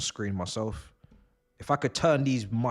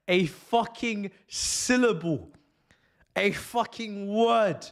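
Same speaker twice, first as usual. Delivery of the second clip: raised, stretched-out warning; exasperated rant; 5 semitones higher than usual. Real, not acted. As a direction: draw out each accusing word in outrage. Ranting threat at the manager.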